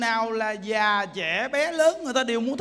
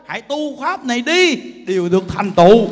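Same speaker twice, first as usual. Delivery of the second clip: nói to, dứt khoát như ra lệnh; thúc giục cả chúng hãy tu; hô lớn khuyên tu; 10 dB louder than usual. Retold or imitated. Lời khuyên tu, rất to. (hô to đầy quyết tâm)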